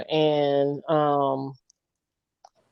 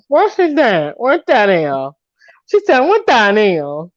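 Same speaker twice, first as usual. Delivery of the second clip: imitating the girl; 2 semitones higher than usual. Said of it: "She talked like this right here".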